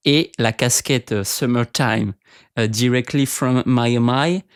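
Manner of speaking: slow, hammed-up English accent on the words; mock English accent. Telling viewers about his Miami cap in a hammed-up English accent. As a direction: drawl it like a fake American tourist. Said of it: "avec ce super accent anglais".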